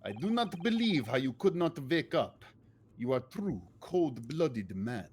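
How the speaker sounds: put-on lightly Swedish accented, slowing at the end; mock Swedish sailor, accusing. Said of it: "I'm still doing Swedish".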